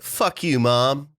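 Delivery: lightly voiced angry teen; mock bratty teen. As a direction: spit it at mom like a sulky teen. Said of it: "stuff like".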